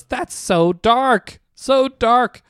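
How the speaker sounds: high, drawn-out imitation of an audience member; mock-scandalized reaction. Guest reacts to the comic's grim joke, mock-scandalized. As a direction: stretch it out high, imitating someone delighted and appalled.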